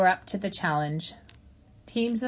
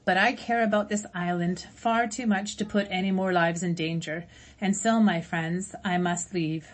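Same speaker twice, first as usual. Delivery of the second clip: gentle robot voice. Acted. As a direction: speak as a caring robot to old friends. Roz announces her departure.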